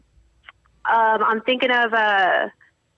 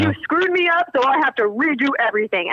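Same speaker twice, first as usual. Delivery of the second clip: imitating mumbling husband. Wife imitates husband redoing his turn, lightly mocked grumbling. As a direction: mimic a husband fussing to himself. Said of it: "who mumbles and says".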